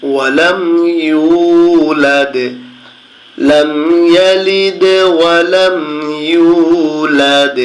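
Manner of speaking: slow, drawn-out melodic tilawah; Quran recitation. Shown as a demonstration. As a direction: stretch হুয়াল্লাহু in a long chant. Teacher recites the verse.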